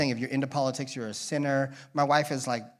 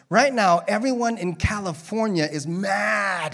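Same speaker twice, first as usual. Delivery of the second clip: emphatic preaching; 5 semitones higher, 3 dB louder than usual. Real, not acted. Preacher stressing a point.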